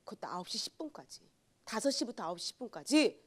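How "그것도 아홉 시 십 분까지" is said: hushed whisper of disbelief; a whispered aside. Real, not acted. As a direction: breathe the time out in a whisper. Stresses the late hour.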